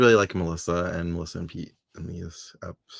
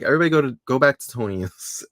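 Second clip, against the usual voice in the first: higher, lifted calling-out voice; mock announcement; 6 semitones higher, 4 dB louder than usual. Host imitating Alex redirecting party guests, calling out higher. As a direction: pretend to herd a crowd.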